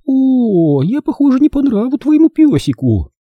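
very high, affected cooing; phoney, fluting politeness; false sweetness. A narrator's reading. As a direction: feign amusement in a high, syrupy lady's voice. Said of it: "Дама издала фальшивый смешок".

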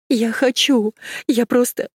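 high, pleading outburst; desperate cry. Acted. Desperate plea at the door.

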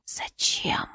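faint breathy whisper; weak whisper. A narrator's reading. Dying husband answers his wife, weak whisper. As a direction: barely whisper the word. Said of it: "издав слабый шёпот".

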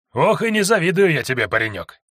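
high sighing fake sympathy; mock-pitying jailer. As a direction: cluck over him in pity. Jailer pities the prisoner. (наигранно сочувствующий тюремщик)

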